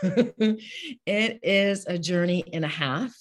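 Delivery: high, loud laugh with a catch of crying; laughing through tears. Real, not acted. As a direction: laugh it off while tears come. Laughing, tearful at "that's me.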